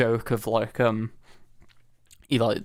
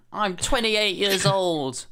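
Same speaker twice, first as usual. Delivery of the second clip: mocking catchphrase; 7 semitones higher, slower than usual. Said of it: "mocking the film's catchphrase".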